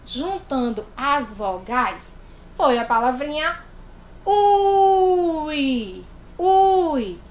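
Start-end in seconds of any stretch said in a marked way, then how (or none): 4.2-7.2 loud, high "ui" like catching a sibling out; a loud playful "ui, ui"; teasing ui. Shown as a demonstration. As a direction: say it the way a kid tattles. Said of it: "E eu já sei que você diz isso".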